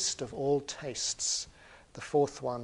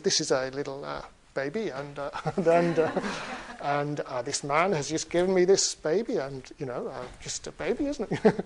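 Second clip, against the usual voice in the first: sheepish troll fumbling an excuse; embarrassed; 4 dB louder than usual. Acted. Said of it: "the troll is looking very embarrassed".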